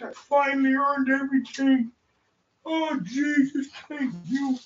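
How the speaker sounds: choked up. Real, not acted. Thanking his supporters, choked up and near tears. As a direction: let the thanks catch in your throat. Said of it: "Don't cry, bud".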